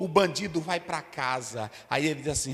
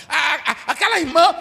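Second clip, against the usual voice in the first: high, loud calling out by name; mocking gossip preacher; 10 semitones higher, 9 dB louder than usual. Mocking a preacher who singles out a sister. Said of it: "eu não tô falando daquele pregador".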